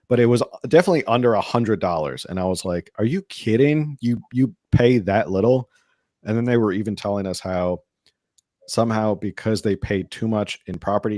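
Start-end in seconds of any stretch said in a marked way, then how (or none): 3.0-5.7 raised, louder retold disbelief; high-pitched astonished question; incredulous. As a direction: react amazed at how little. Retells own disbelief at low price.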